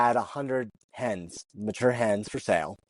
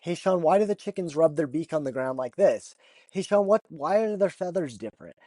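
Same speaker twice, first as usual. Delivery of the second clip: put-on high, eager questions of a curious kid; 7 semitones higher than usual. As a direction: pitch it up like a kid full of questions.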